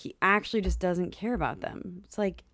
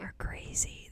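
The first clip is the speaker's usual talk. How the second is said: breathy whispered echo; whispering; 12 dB quieter, slower than usual. Real, not acted. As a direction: drop to a whisper. Whispered agreement.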